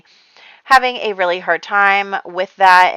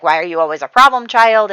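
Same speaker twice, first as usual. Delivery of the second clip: mock yelling; 2 semitones higher, 6 dB louder than usual. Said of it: "yells at Margaret".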